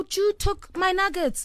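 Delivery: high, slow hammed-up sulk; mock upset. Upset friend telling on Jude over nuggets, mock sad. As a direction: play at being sad, pitched high and drawn out. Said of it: "me sad in the corner".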